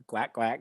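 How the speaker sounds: soft, lightly imitated quacking; duck quack. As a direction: quack softly, half-hearted duck.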